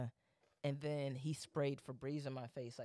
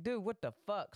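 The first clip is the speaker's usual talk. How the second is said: higher, retold startled "dude"; startled retort; 6 semitones higher than usual. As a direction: blurt it as a reflex protest. Retells own startled reaction to spray.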